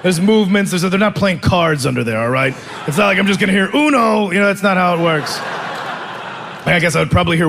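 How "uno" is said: mock shouted cry. Imagined bedroom cry.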